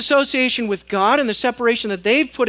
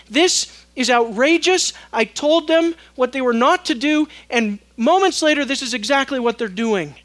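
outraged God; 3 semitones higher, 6 dB louder than usual. Acted.

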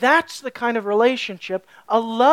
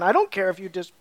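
mock indifference, pitched up at the end; uncaring father. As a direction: play a dad who can't be bothered. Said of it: "the father doesn't really care".

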